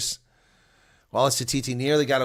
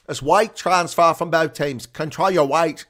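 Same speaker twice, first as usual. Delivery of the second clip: mock Australian referee, a touch louder; Australian accent; 3 semitones higher, 5 dB louder, slower than usual. Streamer imitating referee Angus Gardner in Australian accent. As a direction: copy the Australian ref's call. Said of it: "Angus Gardner's Australian accent".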